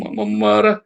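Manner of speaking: high, loud mock tantrum; put-on upset little-kid voice; imitating tantruming child. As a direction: mimic a kid wailing in protest. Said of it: "begitu namanya tantrum itu".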